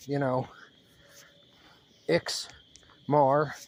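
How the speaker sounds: hushed whisper, unvoiced breath. Real, not acted. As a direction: drop to a secret whisper. Avoids saying the name aloud.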